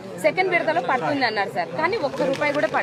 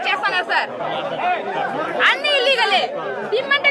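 angry raised voice. Real, not acted. Protester complaining to the official, angry raised voice. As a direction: keep pushing back in real anger.

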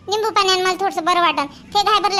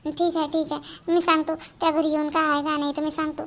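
hushed reply; 4 semitones lower, 6 dB quieter than usual. Acted. Whispering so mother won't hear.

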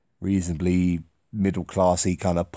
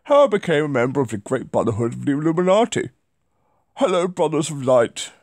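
lightly voiced old posh Englishman, a bit higher and faster; Edward voice; 5 semitones higher, faster than usual. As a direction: read it as a mildly posh older gentleman. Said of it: "read it in a voice I've done before".

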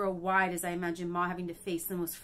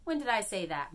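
angry bark; 3 semitones higher than usual. Acted. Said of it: "Ma barks angrily".

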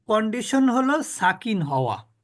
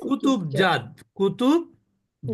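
slow teaching drill; slower than usual. Shown as a demonstration. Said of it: "মনে রাখার সুবিধার্থে আমরা বলতে পারি".

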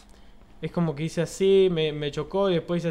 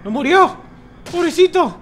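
high, loud fake sympathy; mock pity; 14 semitones higher, 9 dB louder than usual. Real, not acted. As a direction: coo over him in mock pity.

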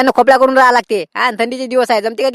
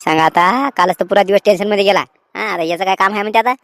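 put-on lower, grumbling old man; 6 semitones lower than usual. Old trader grumbles to the noisy farmer at the door, low and annoyed. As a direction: mutter low like an old man who has had enough.

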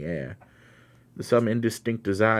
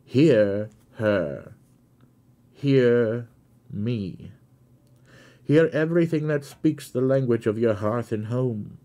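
urgent louder plea; 3 semitones higher, 4 dB louder than usual. Acted. The cricket urging the carrier to listen, in a loud plea. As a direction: press the carrier to hear, voice lifted. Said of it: "in an attitude of invocation".

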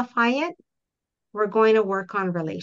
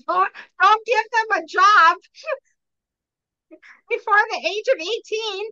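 laughing tease; 12 semitones higher, 5 dB louder than usual. Real, not acted. Playful admonishing, laughing.

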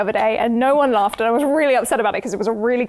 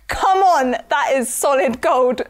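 smug. Acted. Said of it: "I am hilarious".

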